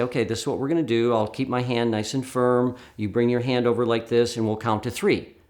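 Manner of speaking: calm, even instructions to a volunteer. Shown as a demonstration. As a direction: keep it nice and calm. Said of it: "my voice nice and calm".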